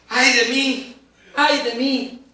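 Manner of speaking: mock-dramatic, doubled cry of dread; dramatic lament. Shown as a demonstration. Preacher showing Isaiah's terror, dramatic doubled lament. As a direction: wail it like a doomed prophet. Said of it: "un ay muy dramático".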